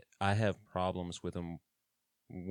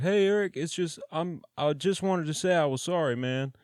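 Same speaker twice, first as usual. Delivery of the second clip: much higher, louder hollered apology; raised, pleading call between cells; 10 semitones higher, 5 dB louder than usual. Retold or imitated. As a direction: shout sorry from down the run. Rebel pipes up from afar.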